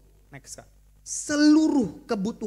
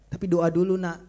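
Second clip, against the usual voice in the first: father insisting; 4 semitones lower, 6 dB louder than usual. Acted.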